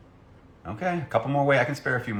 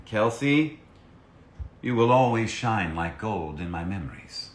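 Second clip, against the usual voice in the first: encouraging quote; 2 semitones higher than usual. Shown as a demonstration. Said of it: "would you be willing to say something encouraging".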